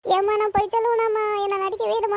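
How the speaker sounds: tearful monotone protest; whiny crying. Acted. Accused child defends herself to mother, whiny crying. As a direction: whine on one held note. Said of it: "அவன் நடிக்கிறா".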